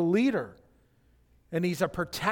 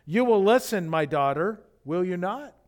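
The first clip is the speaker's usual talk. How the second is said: gentle; 3 dB louder than usual. Shown as a demonstration. Boaz gently asking Ruth to listen, tender and kind. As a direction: ask it tenderly, inviting not ordering. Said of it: "speaking in a very gentle tone".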